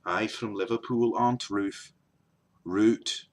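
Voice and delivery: put-on Liverpool accent; Liverpudlian accent. Shown as a demonstration. Vlogger introducing himself as from Liverpool, Liverpudlian accent. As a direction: start the list as a Liverpudlian.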